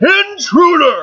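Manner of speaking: high, loud, slow, concussive booming shout.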